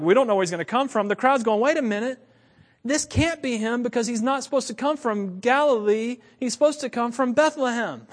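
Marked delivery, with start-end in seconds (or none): 0.0-1.1 quick, offhand mock cluelessness; clueless yahoos. Leaders who should know better admit ignorance, cluelessly. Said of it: "The yahoos who should know better". 1.6-8.1 higher-pitched mock protest; objecting crowd. Crowd disputing where the Messiah comes from, objecting.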